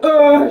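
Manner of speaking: loud, high stalled groan; mock panicked "euh"; freezing up. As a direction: blurt a stuck hesitation sound. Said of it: "je frise comme ça".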